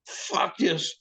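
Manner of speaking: high-pitched, loud cursing, building; escalating yell, pitch climbing to a peak; freaked-out outburst. Retold or imitated. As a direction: reenact a rattled diver demanding to go back. Retelling shaken diver refusing to continue.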